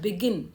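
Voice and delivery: teacher's be-GIN, stressing the end of begin. Shown as a demonstration. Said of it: "लेकिन गिन में स".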